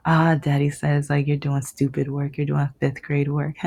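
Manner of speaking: mildly mocking retelling ending in a laugh; imitating laughing sister. Sister passing on father's insult, imitated laughing taunt. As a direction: relay the taunt, then a mock chuckle. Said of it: "She came home laughing, telling me".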